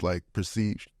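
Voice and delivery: hiccuping mid-sentence; hiccups. Real, not acted. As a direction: talk through the hiccups. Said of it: "got the hiccups".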